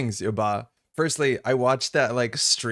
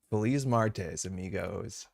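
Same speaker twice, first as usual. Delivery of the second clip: heavy English accent; 2 semitones lower, 4 dB quieter, slower than usual. Shown as a demonstration. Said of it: "with, like, the worst possible heavy English accent".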